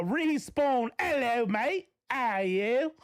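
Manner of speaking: light mock Australian greeting, drawn out; a hint of a put-on Australian hello; Australian accent. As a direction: greet her like an Aussie mate. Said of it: "I put on my Australian accent to greet her".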